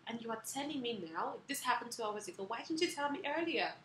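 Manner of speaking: angry retort. Retold or imitated. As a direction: hurl the question back at her, indignant. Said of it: "And then I got angry".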